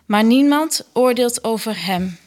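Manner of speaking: measured, evenly phrased scripture reading; liturgical reading. Acted. Lector reads scripture and psalm to the congregation, formal liturgical reading. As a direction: read it out formally, pausing after each verse.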